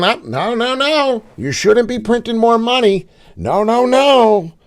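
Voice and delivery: high, scolding no no no; a mock nanny wagging a finger at the money printer; imitating a fussy regulator shouting no; imagined scolding official. Voices imagined printer watchdog.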